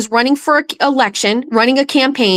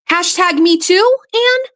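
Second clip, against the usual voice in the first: sarcastic; 7 semitones higher than usual. Real, not acted. Sarcastic jab at candidate.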